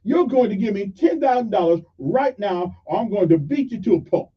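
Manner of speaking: high, loud angry yell that eases off; mock furious road-rage yell; retold yell. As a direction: bark it at the old man like a furious driver. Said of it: "he yells at him".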